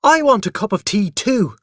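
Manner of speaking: loud, high demanding shout; child shouting for tea. A narrator's reading. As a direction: demand it at full voice. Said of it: "I shouted".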